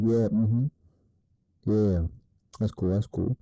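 laid-back, unhurried yeahs; relaxed, calm acknowledgment, no rush; cool, low-key nodding along. Shown as a demonstration. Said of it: "And talk like that, lower and slower".

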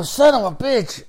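slow, high mock curse under his breath; pissed-off curse. Fed-up driver cursing the border runaround, slow and high. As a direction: spit out a mild retold curse in disbelief. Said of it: "I was fucking pissed".

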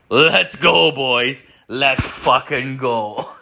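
drawn-out, mock-triumphant cheer; rally the boys, stretching it towards a laugh; hyped rallying cry.

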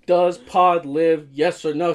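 half-joking slow insistent demand; mock insistence. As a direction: press her for a straight answer. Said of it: "I was like".

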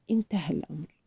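soft, low near-whisper; hushed whisper. A narrator's reading. Grandfather reassures her after the police leave, hushed and low. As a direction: drop right down in relief it's over. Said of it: "همس الجد قائلا".

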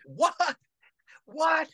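high, strained shout of what; calling into phone. Retold or imitated. Father shouting into a cutting-out call, high and loud. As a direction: yell it up high into a dead line.

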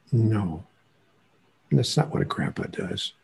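ordinary talk, nothing marked

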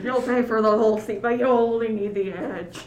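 a touch of rally promo voice; monster truck ad. Pretend. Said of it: "hyping up a monster truck rally".

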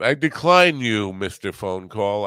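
mock decline. Declining an imagined phone call.

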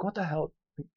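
loud, fast, laughing disbelief; cracking up while protesting; incredulous outburst. Retold or imitated. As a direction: blurt it out half laughing. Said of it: "And I'm like".

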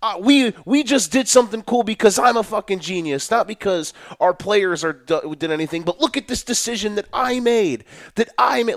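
lightly voiced show-off genius gloating; mocking smug coach. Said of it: "it's almost like they are doing it to pretty much say".

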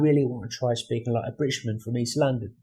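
put-on British East London accent. Shown as a demonstration. Australian shows off his British accents, East London accent. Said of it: "I can do a British accent pretty strong".

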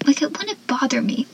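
whispered quote, trailing off; whispered mocking aside. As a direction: breathe it out under the voice. Quoting Dawson, whispered aside.

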